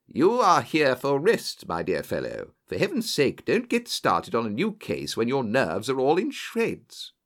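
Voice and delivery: stern doctor's warning, lightly acted; firm admonishment. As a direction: warn a friend off, exasperated but fond. Doctor warns friend off work.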